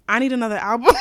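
half laughing request. Real, not acted. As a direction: say it through a giggle. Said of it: "I'm being so dead ass".

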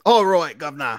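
high, loud mock British accent; silly British accent. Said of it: "In British accents".

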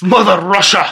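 mock-stern Russian accent; lightly acted angry Russian; mildly aggressive Russian parody; mad-sounding Russian. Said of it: "just sounds like you're mad".

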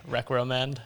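recommend said as rek-roh-mend, with an extra R; the wrong way: rek-roh-mend. Shown as a demonstration. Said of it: "that other one you used to say".

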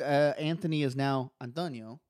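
put-on a light Italian accent on Antonio. A hint of Italian accent. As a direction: roll Antonio out Italian style. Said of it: "my best impression of an Italian accent".

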